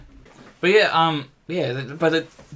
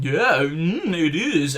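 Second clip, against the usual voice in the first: mock dim-witted kid, slightly raised pitch; dopey head; 2 semitones higher, much slower than usual. Mocking his edited nine-year-old self, dopey head voice. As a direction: play it lightly like a dopey child. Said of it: "He's fucking dopey head going".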